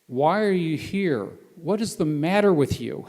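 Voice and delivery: slow, emphatic quoted questions; mock incredulity. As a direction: imitate a baffled soldier demanding an explanation. Acts out incredulous soldier.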